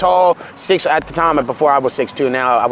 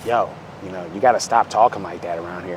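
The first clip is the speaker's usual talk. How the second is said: mock trainer voice; 10 semitones lower, 7 dB quieter than usual. Quoting the whitewashed trainer.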